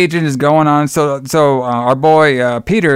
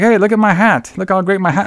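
bragging guy; 6 semitones higher than usual. Retold or imitated.

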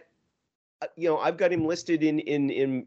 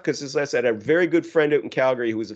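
ordinary delivery

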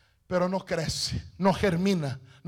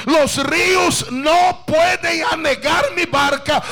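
declaring; 4 semitones higher, 3 dB louder than usual. Shown as a demonstration. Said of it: "Declare en aquel momento".

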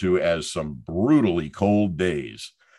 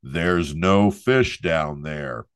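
voice from above; 2 semitones lower, much slower than usual. Retold or imitated. Joke teller voicing the voice over the ice hole, slow and solemn. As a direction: spell it out slowly like a voice from the sky. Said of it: "the voice rang out".

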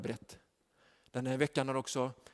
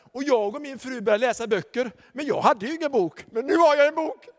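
rising higher and louder with joy; excited man; 8 semitones higher, 6 dB louder than usual. Retold or imitated. Binman thrilled about his new book. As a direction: build to a joyful burst. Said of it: "så säger han".

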